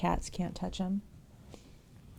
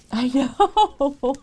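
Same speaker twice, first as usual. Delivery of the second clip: emotional; 7 semitones higher, 10 dB louder than usual. Real, not acted. Overwhelmed by viewers' kindness.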